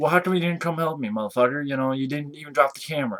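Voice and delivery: play-acted furious woman's voice, angry and pissed off. Retelling a woman's complaint that he kept filming: imitating an angry woman. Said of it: "she gets pissed".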